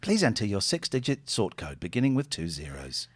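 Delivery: robotic call-centre recording; automated phone voice. Acted. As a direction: read it like a recorded bank message. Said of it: "this is an automated one".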